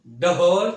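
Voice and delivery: ढोल with a heavy, loud, breathy ढ; heavy sound. Shown as a demonstration. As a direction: boom out ढोल heavily. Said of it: "ऐसे भारी आवाज़". (भारी आवाज़ में ढोल)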